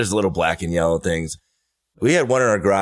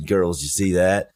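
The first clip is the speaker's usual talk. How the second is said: mock Marlboro Man; slower than usual. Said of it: "like, Marlboro Man".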